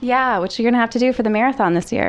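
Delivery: pitch-shifted masked voice; altered voice to hide identity; disguised voice. Real, not acted. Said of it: "we have her voice disguised".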